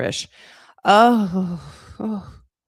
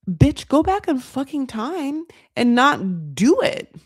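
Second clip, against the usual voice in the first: mock scold; 5 semitones higher, slower than usual. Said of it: "is what I would say".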